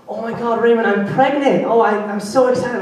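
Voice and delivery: lightly voiced thrilled friend; excited friend. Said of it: "she goes".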